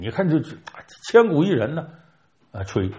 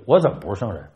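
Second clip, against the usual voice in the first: hammed-up affront, louder on the boasts; mock indignant outburst; 3 dB louder than usual. Guan Gong, stung by the turtle's charge, answers in hammed-up indignation. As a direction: bristle like an offended proud general. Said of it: "关公就急了".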